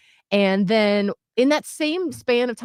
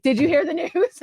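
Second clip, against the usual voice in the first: agitated news-breaking; 8 semitones higher than usual. Retold or imitated. Reenacts breaking news to fiance.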